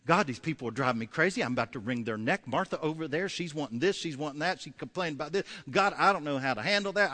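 mildly exasperated venting prayer; a touch of acted frustration; frustrated Moses. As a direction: let the complaints tumble out to God. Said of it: "he'd get real frustrated with them".

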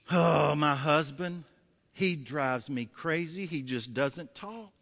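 slow, exasperated sigh of a wife; acted weary spousal complaint; complaining wife. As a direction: grumble wearily, dragging out each phrase. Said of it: "have you ever heard a wife complain".

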